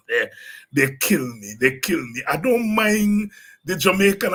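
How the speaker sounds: usual speaking voice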